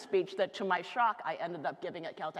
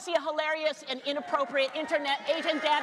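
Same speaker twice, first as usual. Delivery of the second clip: hyping the crowd; 5 semitones higher, 4 dB louder, faster than usual. Real, not acted. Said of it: "you need to want it a little bit more".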